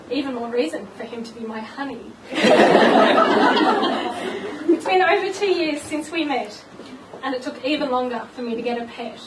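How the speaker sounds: a light sing-song rhyme read with giggles; bride-to-be reads her jokey poem to guests, lightly sing-song; rhyming poem recital. Acted. Reading her engagement poem to friends, amused. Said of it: "so I'm gonna give this a go".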